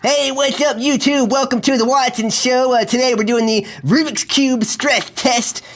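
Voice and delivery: YouTuber host. Acted. Plays YouTube show host.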